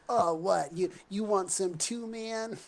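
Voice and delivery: cocky challenge. Acted. Peach Fuzz squares up to Gilly, cocky and loud. Cornered character taunts menacing intruder.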